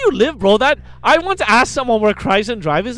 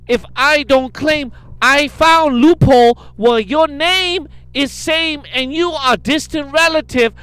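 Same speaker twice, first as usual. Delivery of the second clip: mock broken English; 4 semitones higher than usual. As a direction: ham up the scammer's pleading. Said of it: "It's broken English, her email".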